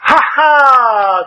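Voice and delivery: high, loud delighted cry; vain man shouting from afar. A narrator's reading. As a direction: call out eagerly from a distance. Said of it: "gridò da lontano il vanitoso".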